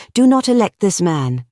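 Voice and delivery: high, forceful order; impassioned command. A narrator's reading. Gregory commanding the anarchists, impassioned order. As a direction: drive the order home.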